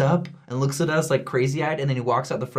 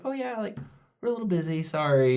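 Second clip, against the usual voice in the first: dismissive brush-off; 6 semitones higher than usual. Retold or imitated. Family brushing them off.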